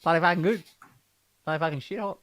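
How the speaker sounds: casual Aussie swearing; put-on Australian boast; mock Australian accent. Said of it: "do an Australian accent".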